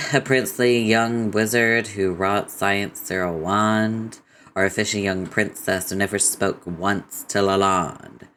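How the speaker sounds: lightly voiced character, drawing words out; theatrical questioning with long, stretched words; Rose's voice. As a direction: put on a slightly drawling character voice. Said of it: "I'm doing Rose's voice".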